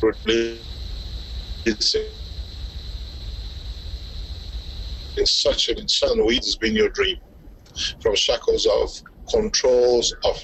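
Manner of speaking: choppy, dropping call audio; radio breaking up. Real, not acted. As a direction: voice cutting in and out. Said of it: "we're losing you there".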